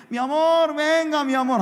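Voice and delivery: lightly played local calling him love; imitated coaxing call. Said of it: "Todo el mundo me dice".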